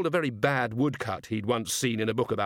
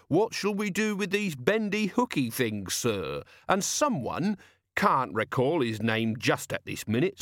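put-on raised, lively old sailor voice; gruff old sea captain; 9 semitones higher than usual. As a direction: play the wily old ship's captain. Jenkins retelling, voiced by narrator.

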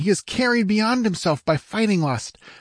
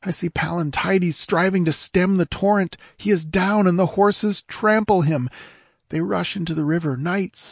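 high, distressed report of the rout; understated grief, raised pitch; sobbing squire; 9 semitones higher than usual. A narrator's reading. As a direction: report defeat as if near tears. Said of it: "sobbed the squire".

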